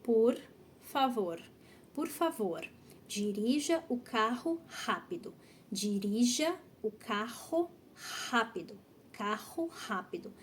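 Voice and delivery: slow syllable-by-syllable model, "carro rápido" with R as breathed h; careful teacher demo, pausing between phrases; soft breathy R. Shown as a demonstration. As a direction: say "por favor" with light Rs, "carro rápido" with puffed h sounds. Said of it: "esse R é um R muito mais suave de se pronunciar".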